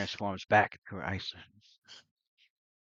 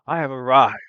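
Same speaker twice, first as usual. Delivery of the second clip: loud, grand announcement, pitched up; deep feminine voice; 6 semitones higher, 17 dB louder than usual. Acted. Game master as newcomer greeting the party, booming feminine figure. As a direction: proclaim your arrival with force. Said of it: "deep feminine voice".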